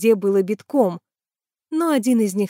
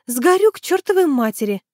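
higher, louder dismayed wail; moaning; 7 semitones higher, 3 dB louder than usual. A narrator's reading. Tanya forgot sunscreen, wailing higher. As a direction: moan it in dismay. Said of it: "простонала она".

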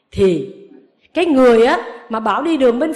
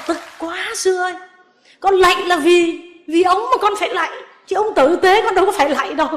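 laughing; 6 semitones higher than usual. Real, not acted. Laughing while confessing anger.

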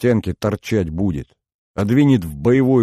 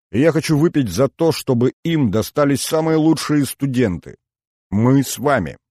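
high, loud, fast rousing toast; Дюха kicks off the toast, hollering; 6 semitones higher, 4 dB louder than usual. Acted. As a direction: raise the glass and shout it. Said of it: "завопил Дюха".

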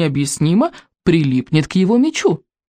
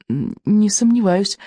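tactful; 3 semitones higher, slower than usual. A narrator's reading. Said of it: "тактично отозвался Икинг".

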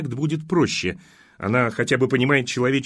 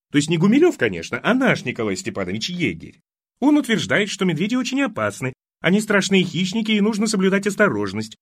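higher, louder doting mother; fussy old mother; 7 semitones higher, 5 dB louder than usual. Acted. Mother scolds her daughter for worrying the young man, higher and louder. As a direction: fuss and protest over him. Mother explains about the bears.

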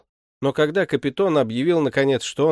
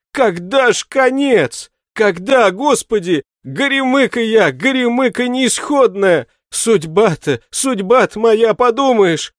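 much higher and louder, a self-pitying wail of woe; lamenting shoemaker; 11 semitones higher, 8 dB louder than usual. Acted. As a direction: moan about his wretched fate, high and loud. Shoemaker laments his fate. (горестный, жалобный причитающий голос, выше и громче)

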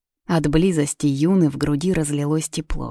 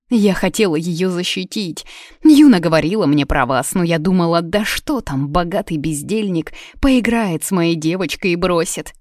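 tearful excuse; 2 semitones higher, 3 dB louder than usual. Acted. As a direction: justify herself anxiously. Тётка оправдывается перед королём. (оправдываясь, со слезами)

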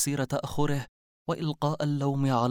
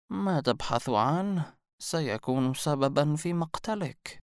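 slow, higher ominous warning; mysterious old woman; 4 semitones higher, slower than usual. A narrator's reading. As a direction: foretell his death, drawn out. (عجوز تنذر ببطء وصوت مرتفع)

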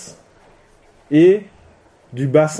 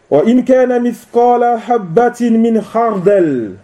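higher-pitched verse recitation; Quranic recitation; 5 semitones higher than usual. Real, not acted. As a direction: recite the verse in a raised, measured tone. Suite du verset récité. (récitation coranique, ton plus haut)

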